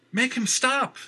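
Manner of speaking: high, desperate yell. Acted. Valerie yells at Jenner to stop Gregory. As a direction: scream the demand at him. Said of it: "she yelled at Jenner".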